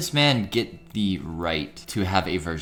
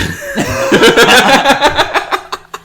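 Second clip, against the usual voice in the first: loud laughter; 15 dB louder than usual. Real, not acted. Hysterical laughter at topic.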